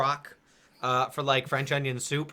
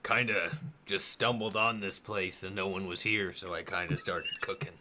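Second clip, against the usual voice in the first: grateful cook; 6 semitones lower than usual. Acted. Game master voices grateful cook.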